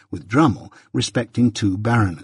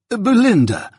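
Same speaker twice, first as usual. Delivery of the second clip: high, exasperated call; remonstrating; 12 semitones higher, 4 dB louder, slower than usual. A narrator's reading. Mister Pocket to his wife across the table, remonstrating. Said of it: "remonstrated Mister Pocket from the other end".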